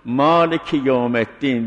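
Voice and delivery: مالک held, then a break before یوم الدین; pause after maalik. Shown as a demonstration. Teacher shows the pause after مالک to students. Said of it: "در مالکه باید مالکه گفت یک توقف کنه".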